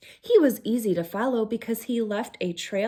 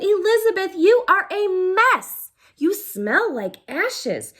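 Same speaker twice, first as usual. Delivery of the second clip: a hint of a snooty high prince voice; haughty prince; 4 semitones higher, 7 dB louder than usual. Prince scolding the messy princess, lightly voiced snooty. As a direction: look down your nose at her.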